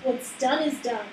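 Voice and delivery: slow, booming pronouncement. Acted. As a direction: boom it out like a spirit. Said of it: "Suddenly a voice booms".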